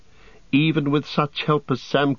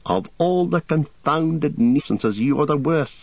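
exasperated scolding; 4 semitones higher than usual. A narrator's reading. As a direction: scold a friend who has caused trouble. Scolding friend after rescue.

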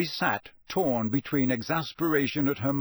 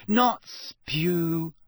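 higher, impatient correction; exasperated, pitched up; 5 semitones higher than usual. A narrator's reading. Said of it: "said Hermione impatiently".

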